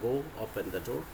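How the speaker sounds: slow teacher model; slow dictation. Shown as a demonstration. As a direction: say it slowly for the class to copy. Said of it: "imperative sentence में".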